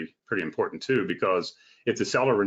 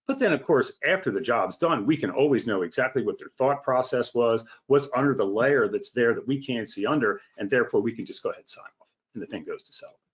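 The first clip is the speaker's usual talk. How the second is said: sarcastic. Real, not acted. Inspector mocking blind sign-off on contractors' finished work, sarcastic. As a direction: say it with pointed sarcasm. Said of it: "you're being sarcastic there".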